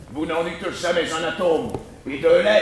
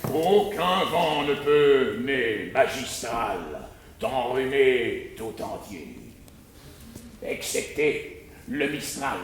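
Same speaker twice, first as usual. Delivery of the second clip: emphatic; 5 semitones lower than usual. Acted.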